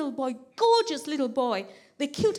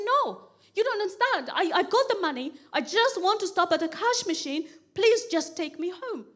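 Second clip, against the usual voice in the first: higher-pitched, insistent plea; pleading protest; 4 semitones higher than usual. Acted. Stranded passenger begging the driver to take her home, pleading. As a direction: plead your case to be understood.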